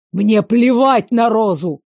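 barked. Acted. Veyen snaps at her about Rosa, barked. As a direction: bark it out, furious. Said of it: "рявкнул он".

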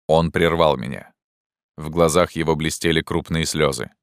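usual speaking voice

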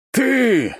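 high, loud furious cry; rumbling rage. A narrator's reading. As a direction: hurl the accusation. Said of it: "пророкотал голос Константина".

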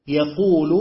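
يقول said with no wa- at the start; يقول in the reading without the waw. Shown as a demonstration. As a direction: drop the waw and say just يقول. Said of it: "من غير الواو".

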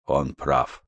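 low soft grave voice; quiet. Acted. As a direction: say it low and heavy. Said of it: "сказал Йон".

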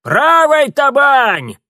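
very high, slow, loud shout; old woman shrieking an oar command; piercing cry. A narrator's reading. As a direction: scream the command. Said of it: "Бабка пронзительно выкрикнула".

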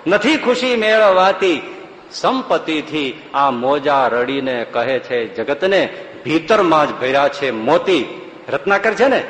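slow chanted verse; slow devotional recitation; recited verse. Acted. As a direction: draw each line out like a poem.

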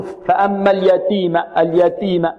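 اليتيم with the ت unaspirated, no puff; اليتيم with a dry, breathless "t"; ta without breath. Shown as a demonstration. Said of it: "يظن أن التاء غير مهموسة".

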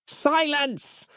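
high, commanding cry; villain silences Nick; yelled command. A narrator's reading. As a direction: cut him off sharply. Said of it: "yelled Harland".

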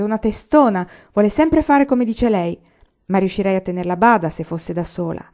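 emphatic and fired up; heated. Acted. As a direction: vent about his stubborn sister. Almanzo complains about stubborn sister.

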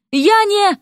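very high, cut-off objection; squeaked, flustered denial; indignant protest. A narrator's reading. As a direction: start to protest and get cut short.

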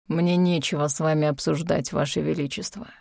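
stubborn. Acted. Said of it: "упрямо отозвался некромант".

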